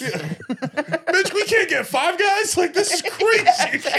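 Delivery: high, slow, whiny disbelief; mock complaining player. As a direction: complain like a let-down athlete. Voicing disgruntled player at Trump.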